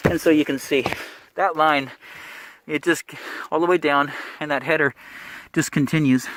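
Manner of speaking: breathless through a mask; out of breath. Real, not acted. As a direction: talk while short of breath. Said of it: "I'm out of breath".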